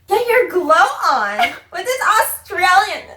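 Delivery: badly faked Australian accent; failed Australian accent. Reading the mask packet to a friend, failed Australian accent. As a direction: attempt an Australian ad voice. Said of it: "I can't do an Australian".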